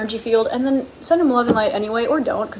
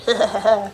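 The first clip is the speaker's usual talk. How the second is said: mock villain laugh. Voices toxic encouragement, then laughs.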